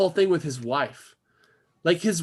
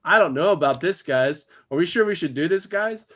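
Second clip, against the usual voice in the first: slightly raised, half-hearted worried voice; mock scared sidekick; 2 semitones higher than usual. Useless sidekick pleading with the guys, mock scared. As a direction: lightly imitate a nervous sidekick. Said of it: "react scared".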